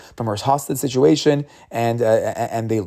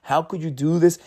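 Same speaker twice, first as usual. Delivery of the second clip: upset yelling; 5 semitones higher than usual. Retold or imitated. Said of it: "And he starts yelling".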